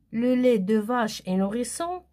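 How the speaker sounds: rising question tune; question intonation. Shown as a demonstration. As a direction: ask by lifting "nourrissant". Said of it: "Je mets le point d'interrogation".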